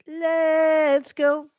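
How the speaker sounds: silly high voice. Pretend. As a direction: chirp it like a cartoon.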